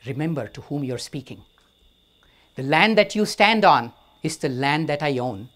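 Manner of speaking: a king putting a monk in his place; angry king. Acted. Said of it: "He's now angry".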